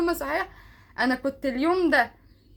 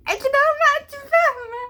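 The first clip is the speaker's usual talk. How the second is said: coy high voice; 13 semitones higher, 5 dB louder than usual. Real, not acted. Coy hint about his confession.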